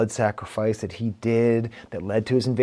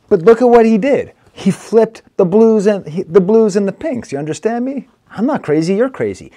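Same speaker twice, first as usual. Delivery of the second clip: much higher and louder, marvelling at the rhyme; excited; 8 semitones higher, 7 dB louder than usual. Real, not acted. Reviewer thrilled by the rapper's rhyme flip, excited. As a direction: burst out in delight at the flip.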